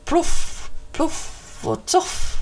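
whispered magic words, slowing at the end; muttered spell. Acted. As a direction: mutter a spell under your breath. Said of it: "mumlade häxan".

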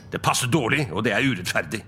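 mildly gruff complaint; grumble, put out by the request; grumbled. Acted. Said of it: "brummet Scrooge". (misfornøyd, gretten brumming)

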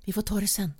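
ordinary delivery

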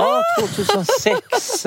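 a squeaky parody of late adopters; mock voice. Friend teasing her about old trends, mock voice. Mocking outdated enthusiasm.

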